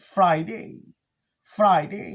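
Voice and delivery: "ফ্রাইডে" as FRY-DAY, clear i glide; full -day ending. Shown as a demonstration. Teacher models the weekday, full-ending "ফ্রাইডে". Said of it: "ডেই বলবো".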